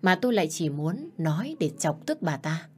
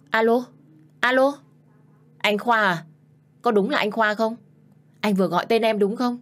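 eager call; 5 semitones higher, 4 dB louder than usual. Acted. Hurried reply hearing his voice.

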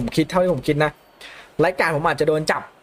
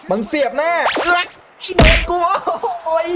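alarmed outcry; 10 semitones higher than usual. Real, not acted. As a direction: cry out as the tackle lands. Bracing for a tackle, gets hit. (ร้องโวยเสียงสูงด้วยความตกใจ)

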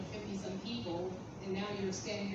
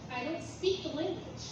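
slow and higher, pleading to God; slow raised plea; earnest plea; 5 semitones higher than usual. Retold or imitated. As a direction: spell it out slowly, voice raised in pitch. Quoting his own prayer to God.

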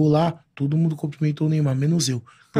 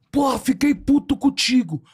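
higher, slow, mock-grumpy voice; mock annoyed Neymar; 8 semitones higher, slower than usual. Neymar teasing the fan for ignoring him, slow mock grumble. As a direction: pretend to be upset as a joke. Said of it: "Chegou lá, ele".

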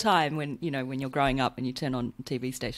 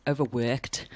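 a light imitation of a Liverpool accent on "overworked"; Paul Hollywood; 3 semitones lower, slower than usual. Fan quoting the baker, "overworked" with a mild Liverpool accent. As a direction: say "overworked" with a hint of Scouse. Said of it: "I like the way that Paul Hollywood says it".

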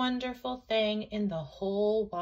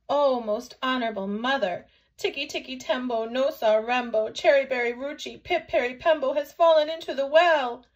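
put-on loud child's report, building higher; urgent little boy; 4 semitones higher, 7 dB louder than usual. A narrator's reading. Chang telling mother his brother fell in, urgent. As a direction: blurt the long name urgently, rising in volume. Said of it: "ran as fast as his little legs could".

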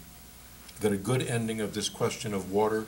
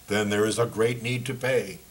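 a touch louder, for his friends to hear; mildly raised voice for the crowd; said loudly; 4 dB louder than usual. Acted. Guard to Paul, playing to his fellow workers, mildly loud. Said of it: "the man said loudly".

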